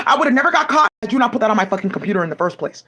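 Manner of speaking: shouted accusation; angry shout. Real, not acted. Blaming them for what was put on her computer, shouting. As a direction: yell it out in blame.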